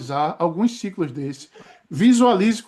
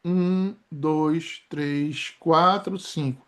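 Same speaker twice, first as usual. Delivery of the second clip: slow exhale count; 3 semitones lower, 3 dB quieter, much slower than usual. Shown as a demonstration. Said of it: "E vou expirar".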